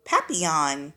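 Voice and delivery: papillon said the French way, pa-pee-yon; French pronunciation. Shown as a demonstration. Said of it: "You say it like this".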